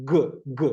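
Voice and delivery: short isolated "ഗ", the hard g sound; crisp teaching demo of "ഗ"; letter sound ഗ. Shown as a demonstration. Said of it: "ജിയുടെ sound".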